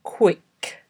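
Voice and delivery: careful, isolated word for dictation; slow dictation. Shown as a demonstration. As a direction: say each word on its own, long pauses between. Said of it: "read ten words aloud slowly".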